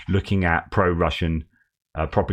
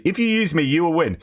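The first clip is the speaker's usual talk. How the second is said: much higher, urgent call to the crowd; rallying cry; 8 semitones higher than usual. Retold or imitated. Recruit promising victory to his comrades, high rallying cry. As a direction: lead the chant up high.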